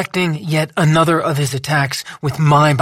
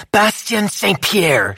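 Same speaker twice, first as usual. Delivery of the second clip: slow naming; 6 semitones higher, slower than usual. A narrator's reading. Lou names him slowly.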